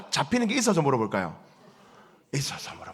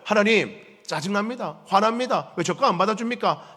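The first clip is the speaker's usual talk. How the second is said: angry complaint; 5 semitones higher than usual. Acted. Cain complains to God angrily.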